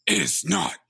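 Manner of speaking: one word at a time, long pauses between; portentous, spaced-out movie line; dramatic slow quote. Acted. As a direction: let each word land on its own. Movie quote acted slowly, word by word.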